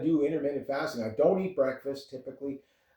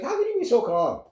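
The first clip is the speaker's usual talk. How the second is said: mom getting mad; 10 semitones higher than usual. Retold or imitated. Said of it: "my mom used to get mad at me".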